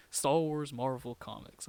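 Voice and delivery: "Star Wars Marvel comics" said slowly, each word weighed; slow and deliberate, tasting how strange "Star Wars Marvel comics" sounds; savoring odd phrase. Shown as a demonstration. Fan repeating a phrase he finds weird, slow and deliberate. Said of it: "That's so weird to say".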